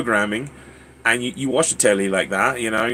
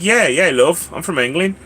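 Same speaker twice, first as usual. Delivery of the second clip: put-on higher British accent, casual reply; 4 semitones higher than usual. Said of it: "take orders with the British accent".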